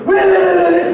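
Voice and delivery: high, panicked string of whys; startled husband. Retold or imitated. Husband reacting to wife's scream at home, startled. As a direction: act out an alarmed, urgent reaction. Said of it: "저는 더 놀래거든요".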